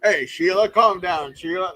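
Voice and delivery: hammed-up Australian accent. Shown as a demonstration. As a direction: do a playful Aussie calling Sheila. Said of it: "that's my Australian accent".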